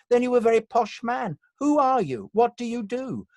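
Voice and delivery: high, loud theatrical bafflement; imitated exasperated luvvie, pitched right up; casting director. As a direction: demand it like a grand casting director. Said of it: "a casting director saying to me".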